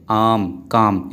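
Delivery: "आम, काम" with long aa and no r; long vowel, silent r. Shown as a demonstration. Teacher showing where r is silent, long-vowelled "आम, काम". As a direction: draw out the aa in "आम, काम". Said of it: "आर silent है ना".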